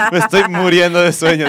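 talking through a yawn. Real, not acted. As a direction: yawn out the words.

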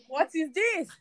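mild retold disbelief; retold shock. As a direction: reenact being taken aback. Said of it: "I was so shocked".

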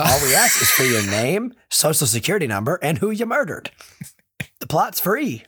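hammed-up advert patter; mock salesman. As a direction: sweet-talk the customer into a deal. Plays the murder bog salesman.

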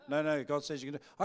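insistent push back. Acted. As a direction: shut the excuse down firmly.

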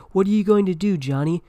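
high, loud alarmed call; shouted question. Acted. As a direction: shout up to the man on the ledge. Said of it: "shouted the teammate".

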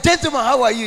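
hearty greeting. Retold or imitated.

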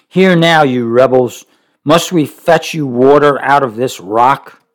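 Moses rebuking. Acted. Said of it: "He said".

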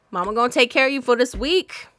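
loud, cooing mama tone; mother the listeners, teasing; playful mama. Real, not acted. Hosting her listeners as their mama, playful and loud. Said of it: "playful mama persona".

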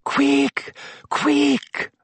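very high, anxious moan. A narrator's reading. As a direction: whimper it urgently. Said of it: "Hermione moaned".

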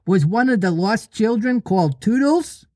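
put-on high little-boy question; childish, hopeful asking; hopeful Tootles. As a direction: pitch it up as a child hoping to be included. Tootles voiced.

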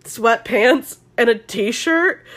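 slow, drawn-out SoCal surfer speak; Connor's SoCal voice. Retold or imitated. Podcaster retelling Connor's answer, mock SoCal voice. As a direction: attempt a lazy SoCal dude, questioning. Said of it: "let me try to do his SoCal voice".

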